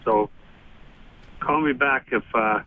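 echoey speakerphone line; tinny, echoey phone call. Real, not acted. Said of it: "You're sounding a little echoey".

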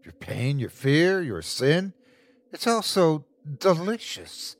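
creature savouring every word, swooping pitch; gloating creature. Acted. Creature toys with its strapped-down captive, gloating. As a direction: relish it like a taunting monster.

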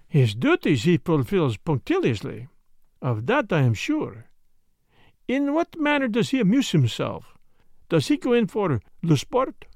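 a hint of a precise, questioning Belgian sleuth; Poirot. Story figure, Belgian detective.

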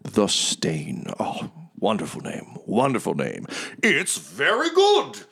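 smooth, grand, apologetic host; oil every word with charm; lightly voiced theatrical merchant; Mahadi, gregarious tiger. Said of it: "he's like, Oh".

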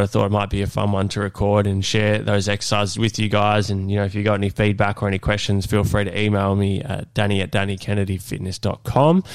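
stuffy, blocked-nose voice; nasally voice. Real, not acted. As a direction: speak with a nasal cold. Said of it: "the nasally voice today".

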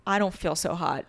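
groggy morning after, real hangover; hungover. Real, not acted. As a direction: speak tired and hungover. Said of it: "this is my reality right now".

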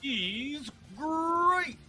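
a cartoonish hype-man owner; Mark Davis impression. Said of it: "He talks like Tony the Tiger".

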